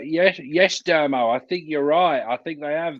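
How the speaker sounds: generic co-commentator voice. Pretend. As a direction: play a mildly hammed-up TV co-commentator. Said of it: "generic co-commentator accent".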